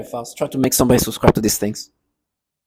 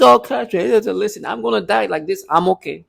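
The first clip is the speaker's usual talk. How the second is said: higher-pitched imitation, easing down at the end; mock pleading quote; 5 semitones higher than usual. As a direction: lightly mimic their higher voice. Acted quote of mocked people.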